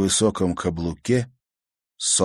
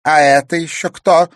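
put-on loud, higher, irritated old woman; displeased; 9 semitones higher, 10 dB louder than usual. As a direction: snap at the newcomer. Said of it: "недовольно спросила бабушка".

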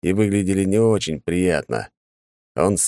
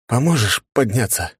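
хриплый шёпот; 6 semitones higher than usual. Acted. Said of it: "прохрипел я".

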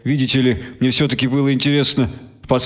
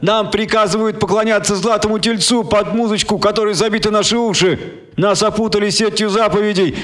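high, rousing orator voice; preacher's speech; 7 semitones higher than usual. Acted. Martin Kenning addressing the crowd through stadium speakers, rousing. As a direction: preach to the masses, lifting each phrase.

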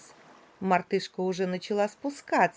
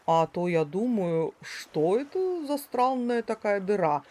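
lightly lowered puzzled boa voice; a hint of a dim, friendly snake. Boa speaking in story.

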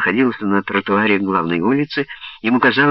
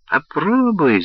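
high squeal like a trapped rat; shrill rat squeal, pushing the drug; 8 semitones higher, slower than usual. Acted. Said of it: "завизжал он Халлику голосом крысы".

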